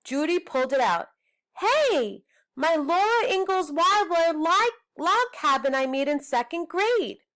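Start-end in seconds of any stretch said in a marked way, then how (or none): 1.6-7.2 high, startled cry of discovery; surprised girl. Acted. Judy finding her old craft in the trash, surprised. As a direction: spot your old treasure in the trash.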